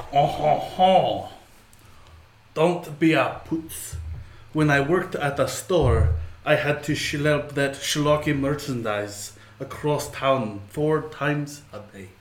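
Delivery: weak attempt at a French accent. Player reading a card for the judge, feeble French accent. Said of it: "their card read in French".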